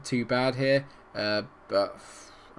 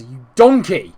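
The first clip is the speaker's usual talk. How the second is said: furious shout; 16 dB louder, slower than usual. Real, not acted. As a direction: bellow it at the player. Insulting his own defender.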